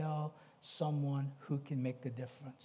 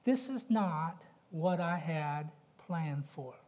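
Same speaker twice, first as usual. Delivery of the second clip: slow lament; slower than usual. Retold or imitated. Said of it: "And she will say".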